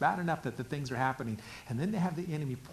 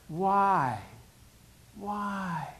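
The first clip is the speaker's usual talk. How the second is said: crying out; 5 semitones higher, 4 dB louder than usual. Acted. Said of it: "I cry".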